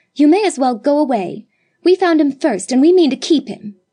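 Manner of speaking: vehement, high, loud outcry. A girl shields the baby from a stranger, crying out vehemently. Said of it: "cried Judith vehemently".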